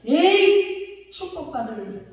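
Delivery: high, drawn-out exasperated "hey"; playful mock anger. Preacher showing the congregation a blessing-curse, mock angry. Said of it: "화가 나면".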